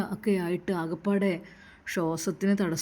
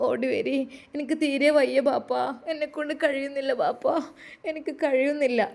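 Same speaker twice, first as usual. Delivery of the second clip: crying out; 4 semitones higher than usual. Acted. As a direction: beg for help through tears. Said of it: "പിതാവിനെ വിളിച്ചു കരഞ്ഞു".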